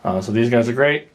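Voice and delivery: breathless, talking between breaths; winded after exertion. Real, not acted. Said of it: "I'm sorry I'm out of breath".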